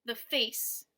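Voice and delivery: the light, face leaned on; stress on face. Shown as a demonstration. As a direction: tap the, hit face. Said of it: "the is unstressed and face is stressed".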